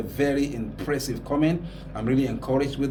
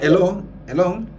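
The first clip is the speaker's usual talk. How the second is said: imitating husband calling; 4 semitones higher, 5 dB louder than usual. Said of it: "the husband is doing something like".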